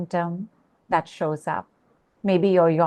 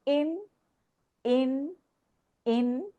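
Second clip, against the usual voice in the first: soft, higher, gentle invitation; 6 semitones higher, 7 dB quieter, much slower than usual. Shown as a demonstration. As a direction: breathe it in softly.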